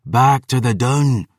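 slow, high call of "Back to the Dun!" with "back" hit hard; a stretched retreat order leaning on "back"; war cry. Acted. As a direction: draw out "back" as a rallying cry. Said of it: "was the Black Heart's cry".

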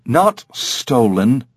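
slow, deliberate correcting tone; pointed correction. Acted. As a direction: stretch it out to set them straight. Parrot correcting the clerk.

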